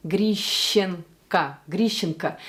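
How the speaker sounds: "Grishenko" drawn out, then whole, with Russian sh; Russian sh demo. Shown as a demonstration. Coach modelling a tricky surname for viewers, slow Russian pronunciation. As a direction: slowly model "Grishenko" with a reduced last vowel. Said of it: "this tricky sh sound".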